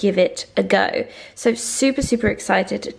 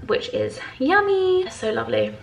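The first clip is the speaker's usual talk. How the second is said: delighted; 4 semitones higher than usual. Real, not acted. Savouring the coffee.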